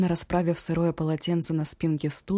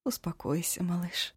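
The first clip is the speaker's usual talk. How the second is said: whispered comfort, much softer; 6 dB quieter than usual. Acted. Cook whispers comfort to the remorseful Eshu. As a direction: soothe him under your breath. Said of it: "Повторила".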